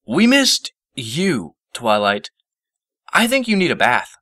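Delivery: put-on slow, lightly high teasing boy; deadpan tease; Spike teasing. A narrator's reading. Spike teases Twilight about her mess, slow high tease.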